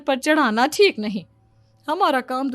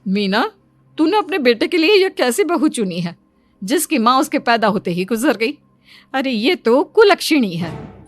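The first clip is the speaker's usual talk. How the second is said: loud scolding; 5 dB louder than usual. Acted. Neighbour scolds loudly.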